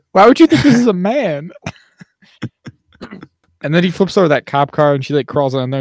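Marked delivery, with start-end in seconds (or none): 0.1-1.5 high-pitched mock bafflement; pitched-up imitation of disbelief; retold incredulity. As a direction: act out a baffled, incredulous question.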